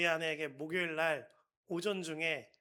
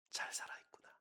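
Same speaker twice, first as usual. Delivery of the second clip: breathy whisper to herself; barely voiced, murmuring alone in the car; whispered relief; 8 dB quieter, faster than usual. Mother watching her son's window, whispering.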